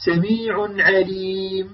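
slow recited سميع عليم with a short, light mim; don't dwell on the mim; correct light ghunna. Shown as a demonstration. Teacher repeating the right reading. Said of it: "هكذا، لا تقول عليم".

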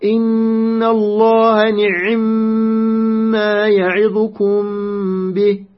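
measured Quran recitation, ayn closed in نعم before a long humming m; ayn with sukun. Shown as a demonstration. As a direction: chant the verse slowly, نعم as ni'-mma with a vowelless ayn. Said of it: "يعني العين ساكنة".

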